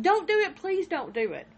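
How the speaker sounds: high, loud start easing back to plain; retold frightened yell. Other daughter pleading on the 911 call, fading mock yell. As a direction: imitate a frightened girl crying out, fading. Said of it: "the other is yelling".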